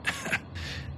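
breathy chuckle to himself; quiet chuckle. A narrator's reading. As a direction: laugh under your breath. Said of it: "Miskell chuckled to himself".

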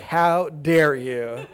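drawn-out, hammed-up indignation; slow mock-offended retort; mock outrage. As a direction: stretch each word in playful scandalized disbelief. Acted shocked reaction to Copernicus.

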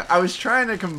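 high giggle through the words; laughing. Real, not acted. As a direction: laugh while explaining the slip. Laughing at own slip.

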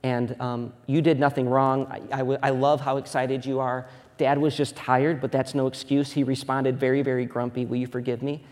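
put-on soft, tender sorry to a child; gentle apology. Dad apologizing to his son on the couch, soft and tender. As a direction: quietly ask your son's forgiveness. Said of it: "I'm like".

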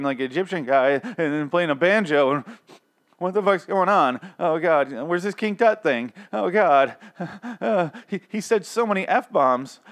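high, loud, panicked outrage; shocked churchgoers. Retold or imitated. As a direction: squeal like scandalized church folk. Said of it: "And they're like".

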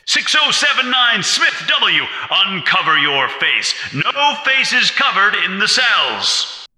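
high, distant, commanding shout; telescreen command. A narrator's reading. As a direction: bark the order through a speaker. Telescreen voice orders prisoner.

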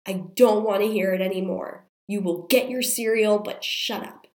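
hoarse, strained scolding, loud then fading to a hiss; angry scolding. Retold or imitated. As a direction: let the anger boil over through a sick throat. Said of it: "I lost it".

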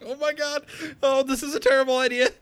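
chipmunk voice. Acted. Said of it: "I'd really like to stop talking like this".

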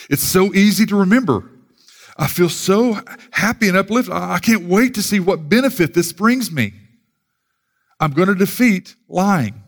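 hammed-up happy excitement; acted uplifted churchgoer. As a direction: play a thrilled listener leaving the sermon. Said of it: "You leave thinking".

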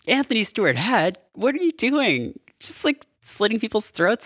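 high-pitched disbelief at the actor; incredulous outburst. Real, not acted. To Anthony Stewart Head about the throat slitting, high incredulous squeal. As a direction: squeal it out, baffled and appalled.

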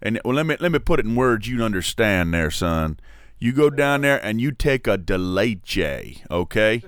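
lightly voiced hipster, slowed. Comic showing off his hipster voice, lightly done. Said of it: "That's my hipster voice".

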